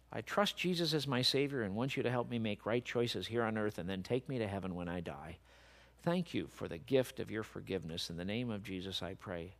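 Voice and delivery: low, soft praying voice; model prayer. Shown as a demonstration. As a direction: lead a prayer quietly and simply. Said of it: "you can pray a prayer just like this".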